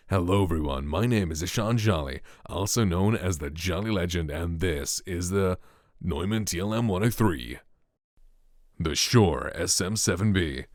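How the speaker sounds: measured American accent for a mic demo. Shown as a demonstration. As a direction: present it in a brighter American accent. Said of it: "do a quick demonstration of my American accent".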